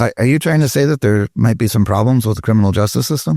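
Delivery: mock-innocent sarcastic question. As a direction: ask it with dry, knowing sarcasm. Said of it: "More, more sarcasm".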